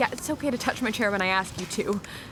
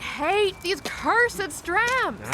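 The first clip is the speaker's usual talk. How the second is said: frustrated; 5 semitones higher, much slower than usual. Acted. Frustrated on the ramp.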